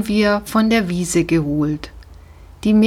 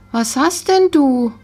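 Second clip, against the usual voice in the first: asking gently; 6 semitones higher than usual. A narrator's reading. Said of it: "fragte ich".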